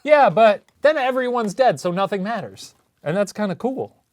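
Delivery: gleeful villain musing; movie villain. Pretend. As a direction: savor it like a villain. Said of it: "You sound like a movie villain right now".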